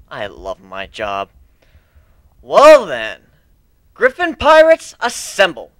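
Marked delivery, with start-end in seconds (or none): 2.4-5.7 loud, high rallying cry; rallying call. Acted. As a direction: call the crew to arms. Captain rallying crew.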